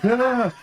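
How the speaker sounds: high yelp of fright; a scared little cry; retold shriek; startled yelp. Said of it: "I was like".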